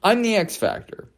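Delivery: high pitched plea to keep ranting; high joking let me go; mock plea. Real, not acted. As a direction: squeak it, half joking. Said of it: "I'm on a rant".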